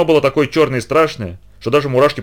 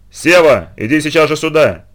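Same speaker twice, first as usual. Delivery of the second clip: louder, threatening summons; stern call; 4 semitones higher, 4 dB louder, slower than usual. Acted. Mother sternly summons her son from the room. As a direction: call the boy in with a warning. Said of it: "раздалось грозно".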